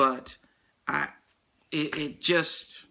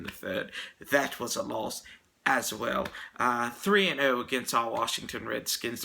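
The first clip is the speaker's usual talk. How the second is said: put-on British accent. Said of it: "I'm going to try this in my British accent".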